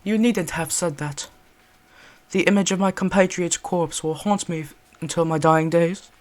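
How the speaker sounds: pained British gentleman; haunted British lament; British accent. Acted. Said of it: "British accent for this one".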